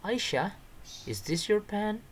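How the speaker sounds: high-pitched character voice, rising question; acted dialogue question. Shown as a demonstration. Samir asking Aisha about a found pen, high questioning voice. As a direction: call the name, then ask high.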